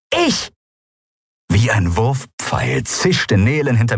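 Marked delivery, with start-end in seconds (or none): 0.1-0.5 very high sharp shout; tiny creature charging the pirate, high shout; battle cry. Acted. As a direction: yell it as you charge.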